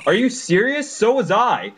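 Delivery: put-on high, eager young hero; Sora voice. Friend voicing Sora in a high eager voice. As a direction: pitch up for a plucky hero. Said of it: "I'm gonna do the voicing for Sora".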